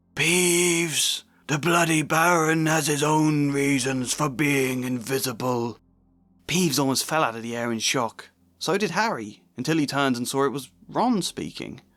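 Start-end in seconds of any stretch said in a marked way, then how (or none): 0.1-5.7 hoarse, raspy voice, higher. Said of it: "a hoarse voice was speaking".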